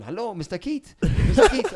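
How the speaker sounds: high, loud mock Italian girl calling his name; imitating an eager Italian girl calling out. The Italian girl at the hotel door calling him, high and eager. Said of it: "little kind of Italian girl there going".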